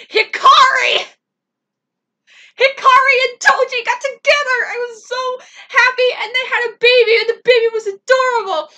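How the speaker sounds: high, loud, ecstatic squealing; overjoyed squeal. Real, not acted. Fan gushing to viewers, loud ecstatic squeal. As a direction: shout it out in pure fan joy. Gushing about favourite couple.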